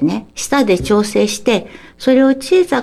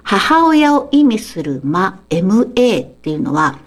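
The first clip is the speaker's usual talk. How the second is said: ordinary talk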